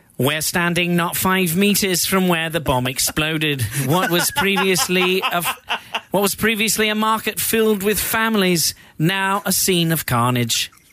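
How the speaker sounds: British field correspondent voice. Speaker shows the listener an impression, BBC reporter voice. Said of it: "I can do my BBC guy".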